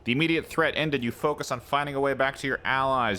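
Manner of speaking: measured storyteller's read; steady narration for the game text. Acted. Reads game narration aloud.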